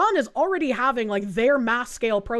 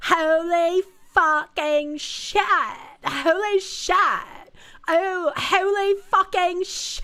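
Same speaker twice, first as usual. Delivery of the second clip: put-on Californian accent, pitched up; 7 semitones higher than usual. Mocking a person who swears during a serious moment, in a Californian accent. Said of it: "person in a Californian accent going".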